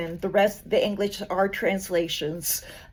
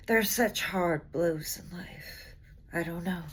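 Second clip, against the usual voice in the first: slow, heavy recital with long pauses; grave poetry reading; slower than usual. Acted. Reading The Black Heralds to an audience, grave and slow.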